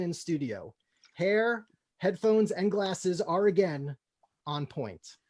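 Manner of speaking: measured table-read narration; stage directions. Acted. Reading the scene heading to the audience, measured. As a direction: set the scene for the listeners.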